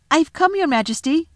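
put-on high and eager boy. A narrator's reading. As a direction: rush it out eagerly. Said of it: "rushing eagerly forward".

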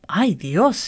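put-on delighted old man marvelling at his luck; lightly voiced beaming joy. A narrator's reading. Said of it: "he said, beaming".

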